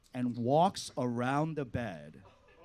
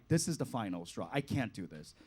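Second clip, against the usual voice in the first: quiet resolve; 5 semitones lower, 6 dB quieter than usual. Retold or imitated. Final straw resolve.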